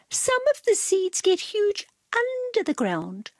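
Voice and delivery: high hushed telling; secretive whisper. A narrator's reading. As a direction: tease him with a whisper.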